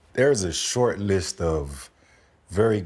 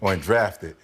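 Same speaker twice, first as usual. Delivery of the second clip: "drafted" said with deliberate emphasis; stress on drafted. Real, not acted. Interviewer clarifying why he excluded the undrafted player, stress on "drafted". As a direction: lean firmly on the word "drafted". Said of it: "So I put emphasis on".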